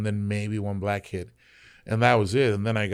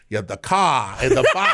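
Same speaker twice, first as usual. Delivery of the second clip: imitated Boston accent with dropped r's; 3 dB louder than usual. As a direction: playfully do a Boston guy's accent. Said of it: "we had a guy from Boston".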